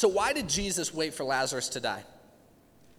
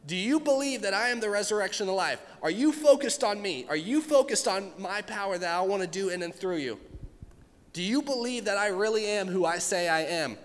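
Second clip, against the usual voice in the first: voicing Jesus; 4 semitones higher than usual. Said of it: "Jesus says".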